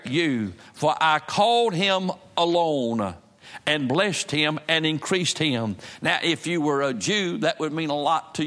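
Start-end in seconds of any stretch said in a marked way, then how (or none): 0.1-5.8 slow scripture reading. Acted. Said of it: "a thing he says in verse two".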